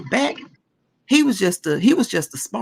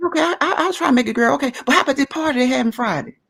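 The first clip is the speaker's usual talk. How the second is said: lightly voiced carefree young woman, quick and higher; dismissive young friend; 4 semitones higher, faster than usual. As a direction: brush it off and jump to the party, hurried. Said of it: "they like".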